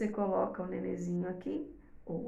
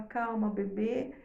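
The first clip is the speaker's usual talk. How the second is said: put-on soothing baby; slower than usual. Shown as a demonstration. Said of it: "aqui e fala".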